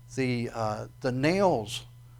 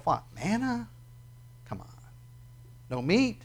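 disgusted complaint; 7 semitones higher, 6 dB quieter than usual. Retold or imitated. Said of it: "They go".

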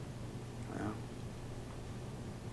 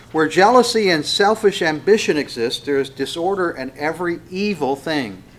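emphatic, raised reading voice; scripture reading; 4 semitones higher, 6 dB louder than usual. Acted. Preacher reading James to congregation, emphatic scripture reading. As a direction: proclaim the verse firmly, starting loud and high.

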